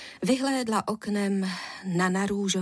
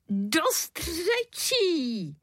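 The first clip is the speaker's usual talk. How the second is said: slow, drawn-out moan; groaning father; 9 semitones higher, much slower than usual.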